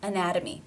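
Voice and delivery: ANATOMY with the T tapped like a D; flap T. Shown as a demonstration. Teacher modelling T between vowels, flap in ANATOMY. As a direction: say ANATOMY with a quick D for the T. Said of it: "it is the flap T sound".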